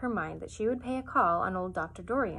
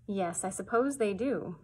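vague; slower than usual. Acted. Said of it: "said Missus Arable vaguely".

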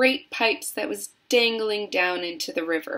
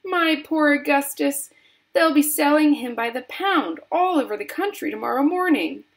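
high, wailing mother; distraught high-pitched complaint; screamed lament; 7 semitones higher, 4 dB louder than usual. A narrator's reading. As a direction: lament your poor boy loudly. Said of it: "screamed Missus Gloop".

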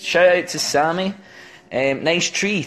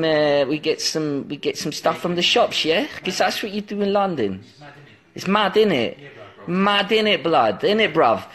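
put-on London street slang voice; London Cockney accent. Shown as a demonstration. Telling of a trip down to London, mock Cockney. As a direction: play a chatty London lad. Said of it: "What's Cockney?".

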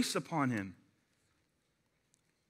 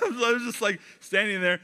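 laughing; 3 semitones higher than usual. Real, not acted.

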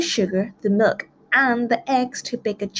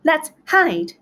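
panicked cry; 8 semitones higher, 4 dB louder than usual. A narrator's reading. Pigs panic as wolf rings.

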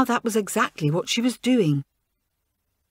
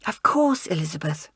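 grateful; 4 semitones lower than usual. Acted. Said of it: "replied her friend in gratitude".

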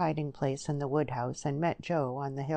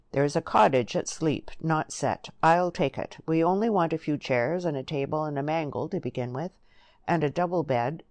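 lightly voiced country suitor, a little louder; rustic Joe, eager planning; 4 dB louder than usual. Joe plans a home with Lily, eager rustic voice. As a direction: list it eagerly in a hint of dialect.

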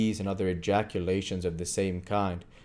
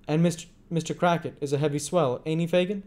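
Tom voice; 9 semitones higher, 4 dB louder, faster than usual. A narrator's reading.

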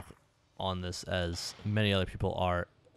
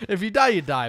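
high, loud, laughing through it; 9 semitones higher, 8 dB louder than usual. Real, not acted. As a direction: laugh as you repeat it. Repeats it laughing.

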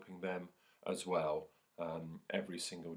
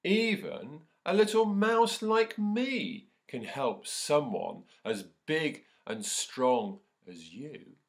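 higher, louder proud little mouse; squeaky mouse; 8 semitones higher, 9 dB louder, much slower than usual. Acted. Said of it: "squeaked the mouse".

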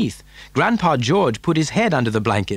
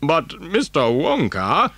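put-on slow, halting old grandfather's voice; hesitant Grandpa Joe; 4 semitones higher, slower than usual. A narrator's reading. Grandfather questioning the factory owner, hesitant. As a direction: falter in disbelief, drawing out the name. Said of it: "stammered Grandpa Joe".

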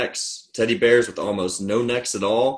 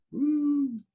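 high, soft, drawn-out "woo"; a light falsetto hoot, held long; airy high woo; 6 dB quieter than usual. Pretend. Sound of the train whistle or cheer.

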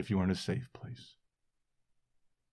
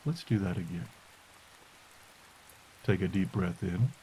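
guided meditation. Acted. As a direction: guide them gently into stillness. Leads a listening meditation.

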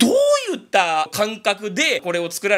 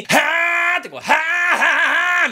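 easy growl; 9 semitones higher, 5 dB louder, much faster than usual. Shown as a demonstration. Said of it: "楽に、".

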